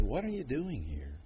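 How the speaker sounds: low, soft, hushed question; almost breathe the words; God speaking softly to Elijah; whispered. Acted. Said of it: "he whispered".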